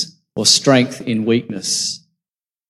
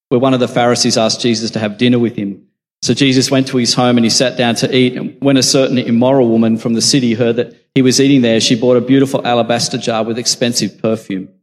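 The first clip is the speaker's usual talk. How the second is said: slightly raised, projected Bible reading; scripture reading; 5 dB louder than usual. A narrator's reading. Preacher reads the Gospel account of the dinner, projected scripture reading. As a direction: read the passage out clearly to a congregation.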